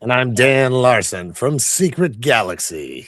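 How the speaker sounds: real gravelly, worn-out voice. Real, not acted. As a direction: speak with a gravelly, tired throat. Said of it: "I like this gravelly voice".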